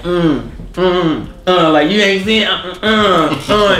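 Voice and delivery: imitating a cocky old woman's taunt; mock taunting. Cocky old lady taunting the men behind a customer, mock taunting. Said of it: "she was taunting them".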